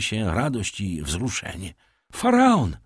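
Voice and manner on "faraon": high, loud joyful shout; exclaiming. A narrator's reading. Young man bursts in with news of the ship, excited shout. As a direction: cry out the great news. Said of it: "wykrzyknął".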